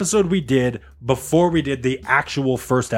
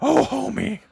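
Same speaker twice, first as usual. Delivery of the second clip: raised, strained cartoon wife voice; put-on cartoon voice, pitched up; Marge Simpson; 5 semitones higher than usual. Shown as a demonstration. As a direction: imitate the cartoon housewife. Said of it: "It almost sounds like Marge Simpson".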